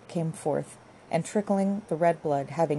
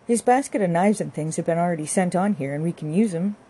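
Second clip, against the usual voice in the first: lightly voiced country wife, a bit louder; brisk practical wife; 5 dB louder than usual. Wife tells husband to do the pig sticking, brisk. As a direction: take charge briskly, lightly in character.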